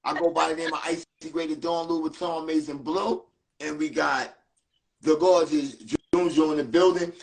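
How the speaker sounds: lightly hyped show-opening read; podcast host intro. Acted. Host opening the show to listeners, a light announcer tone.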